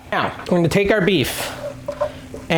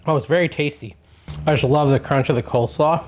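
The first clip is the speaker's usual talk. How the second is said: mouth full. Real, not acted. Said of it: "I'm talking with my mouth full".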